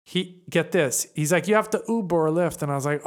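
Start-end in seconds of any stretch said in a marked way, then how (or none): 1.5-2.6 loosely imitated Russian driver's accent; a Russian accent drifting towards German; muddled Russian accent. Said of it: "he sounds German or Brazilian".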